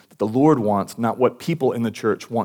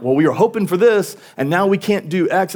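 mock disappointment; 7 semitones higher, 3 dB louder than usual. Disappointed churchgoers quoted.

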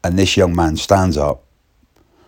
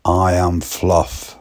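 slow, deliberate I am Fluff; slow odd declaration; slower than usual. Retold or imitated. Young lad announcing himself as Fluff, slow and deadpan. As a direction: say it slowly and solemnly.

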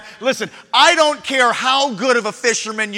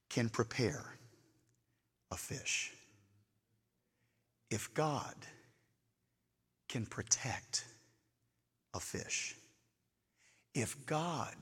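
much softer and lower, slow, near whisper; hushed altar call; 13 semitones lower, 21 dB quieter, slower than usual. Acted. Preacher quietly asks the church to trust God, near whisper. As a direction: pull them in with a hush.

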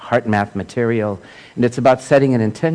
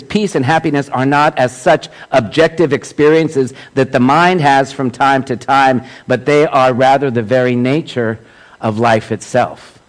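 emphatic quotation reading; 3 semitones higher, 4 dB louder than usual. Acted. Speaker reads a teacher's words to a congregation, emphatic quotation reading. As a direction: read it out with measured, raised emphasis.

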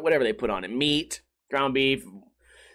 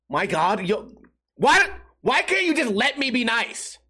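higher, slowed, pleading whine; exasperated whine; 7 semitones higher than usual. Retold or imitated. Retelling to podcast listeners his exasperated plea, whiny. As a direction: beg them to let you be nice. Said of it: "And I'm like".

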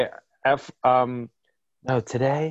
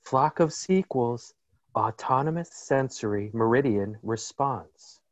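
ASMR voice; slower than usual. Pretend. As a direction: ease into a hushed, drawn-out ASMR delivery. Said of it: "try a little F O S A S M R".

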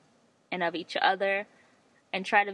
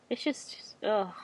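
choked up; 5 dB quieter, slower than usual. Real, not acted. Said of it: "I'm getting emotional".

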